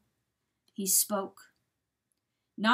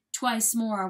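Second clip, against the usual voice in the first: plain reading voice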